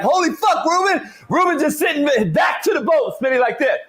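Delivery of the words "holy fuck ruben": shocked yell. Retold or imitated. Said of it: "I look up and I'm like".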